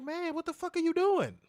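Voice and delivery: high, exasperated cry; exasperated yell. Retold or imitated. Choking patient yelling at dental assistant, exasperated. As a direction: demand what they are doing. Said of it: "I'm like".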